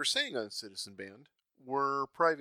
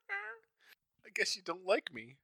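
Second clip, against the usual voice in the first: slow, laughing mock sulk; laughing mock hurt; 6 semitones higher, 3 dB quieter, much slower than usual. Real, not acted. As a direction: pretend to be wounded.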